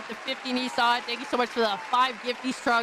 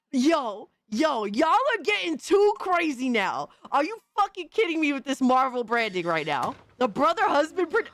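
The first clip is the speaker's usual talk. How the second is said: higher, half-laughing disbelief; can't believe what he's seeing; incredulous outburst; 6 semitones higher than usual. Real, not acted. Reacting in disbelief to video.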